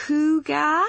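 "Hooga?" as a questioning try, rising at the end; tentative copy. Acted. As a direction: sound out "Hooga?" hesitantly with a rise. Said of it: "Clara pronounced it again for them slowly".

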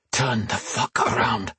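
a furious hiss through teeth; whispered fury. Acted. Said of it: "he hissed".

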